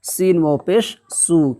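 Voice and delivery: slow, drawn recitation of letters; spelling out syllables. Shown as a demonstration. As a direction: sound out each letter slowly like a Quran teacher. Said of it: "जैसे".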